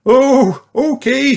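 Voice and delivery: high, loud oh; surprised yes. Acted. Mummy agrees to the race, high. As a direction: give in with surprise.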